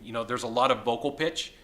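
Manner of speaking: slightly hoarse, worn-out voice. Real, not acted. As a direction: talk through a voice that's going. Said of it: "I'm losing my voice 'cause I'm getting a Las Vegas voice".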